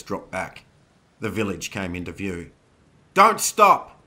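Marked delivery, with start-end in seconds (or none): 3.1-4.0 very high, loud order; urgent, commanding cry; shouted command. A narrator's reading. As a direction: yell to urge riders onward. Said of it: "Zoe commanded".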